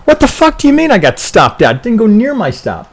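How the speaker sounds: outraged high-pitched complaint; a trader yelling at being stopped out; angry. Retold or imitated. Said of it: "You'll come in and you go".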